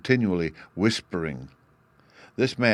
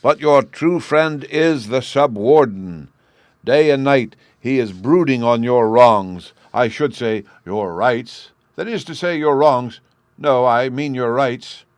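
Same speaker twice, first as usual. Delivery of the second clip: loud, higher, slow public speech; orating speech; 4 semitones higher, 8 dB louder, slower than usual. Acted. Chancellor addresses the crowd, loud orating. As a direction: declaim it to the crowd.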